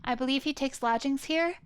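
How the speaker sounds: a hint of a courteous young assistant; lightly voiced polite assistant. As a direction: introduce the client politely, lightly in character.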